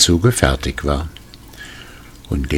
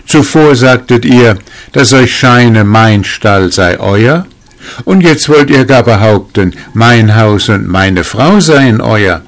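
louder, higher mock protest; indignant exclamation; 5 semitones higher, 6 dB louder than usual. A narrator's reading. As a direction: challenge the accusation with raised voice. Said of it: "rief der Schneider".

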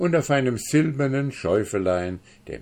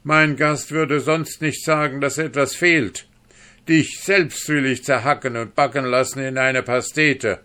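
high, loud angry accusation; furious duke; 7 semitones higher, 6 dB louder than usual. Acted. Duke accuses the dwarf of lying, furious. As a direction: scream it at the liar. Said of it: "runzelte der Herzog vor Unmut".

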